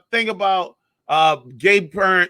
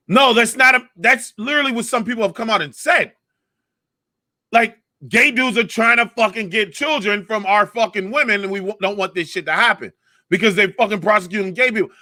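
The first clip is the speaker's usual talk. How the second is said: indignant retort; 3 semitones higher than usual. Retold or imitated. Retold retort to press secretary.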